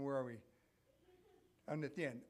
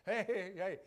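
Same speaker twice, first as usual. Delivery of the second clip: coaxing, higher and louder devil on the shoulder; tempting devil voice; 4 semitones higher, 5 dB louder than usual. Retold or imitated. Devil on the shoulder tempting a listener, coaxing. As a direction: lure them in like a sly devil. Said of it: "the other one's going".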